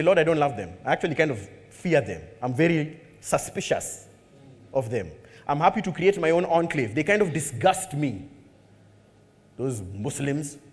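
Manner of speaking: low, soft confessing prayer; honest confession prayer. Retold or imitated. Believer quietly confessing suspicion in prayer. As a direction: confess your fear quietly to God.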